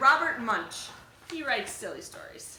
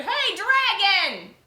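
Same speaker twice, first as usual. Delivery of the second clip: louder, higher, slow drawn-out shout; 8 semitones higher, 8 dB louder, much slower than usual. Acted. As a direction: yell into the dragon's ear. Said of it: "shouted as loud as she could".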